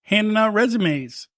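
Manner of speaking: put-on grumbling old-timer lecturing the kids; old man voice. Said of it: "I'm gonna sound like an old fuck again".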